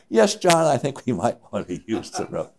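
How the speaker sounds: retold show of calm, starting high; acting calm. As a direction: put on composure as you agree. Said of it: "you try to act calm".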